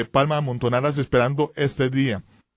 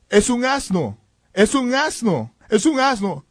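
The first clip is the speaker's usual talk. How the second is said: high, repeated exclamation of disbelief; asombro imitado; 6 semitones higher than usual. Retold or imitated. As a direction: voice onlookers suddenly realizing what they see. Priests' surprised reaction, acted out. (asombro en tono alto)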